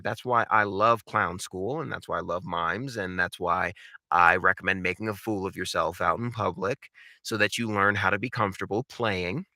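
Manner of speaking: normal talking voice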